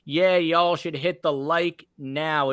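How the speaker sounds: put-on Southern accent; lightly played-up Southern twang. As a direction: do your best Southern accent. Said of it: "in my best Southern accent".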